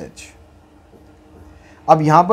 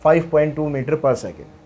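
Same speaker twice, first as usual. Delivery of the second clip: slow dictation; slower than usual. Shown as a demonstration. Reads out the answer for dictation.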